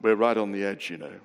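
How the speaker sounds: low, unruffled reassurance; very calm. Retold or imitated. Sailor friend to nervous novice as the sea blows up, very calm. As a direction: keep it low and understated, imitating a calm skipper. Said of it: "very calmly Tim said".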